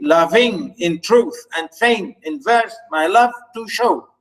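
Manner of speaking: "loving in truth and feign in verse" read with clear beats; scanned iambic reading. Shown as a demonstration. Teacher reading a sonnet line in iambic beats. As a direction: read the line marking each iamb. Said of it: "this is how we say it".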